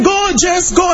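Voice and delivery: high shouted cheer for Jess; crowd cheering. Retold or imitated. Crowd in the stadium urging Jess on, high shouted cheer. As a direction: yell it like the packed stadium. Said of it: "And people were saying".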